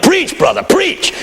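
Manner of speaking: high, urgent call to the preacher; imitated congregant's yell. Somebody urges the old pastor on, yelling. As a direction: holler encouragement from the pews. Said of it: "Somebody yelled".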